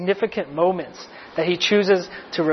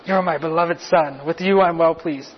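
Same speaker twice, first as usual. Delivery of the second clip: personal affirmation. Acted. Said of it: "A very personal affirmation right to Richard".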